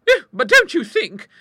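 very high, hesitant suggestion; high-pitched tentative lady; timid. A narrator's reading. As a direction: venture an objection nervously. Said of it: "suggested timidly".

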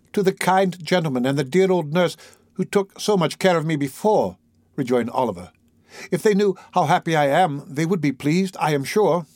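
heartfelt, a touch eager; grateful Oliver. Acted. Oliver remembers his kind old friends, earnestly.

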